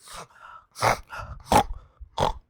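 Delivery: exaggerated wheezy gasps; mock heavy breathing. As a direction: gasp and pant like a shut-in. Mimicking a basement dweller.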